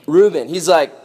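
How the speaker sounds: ordinary delivery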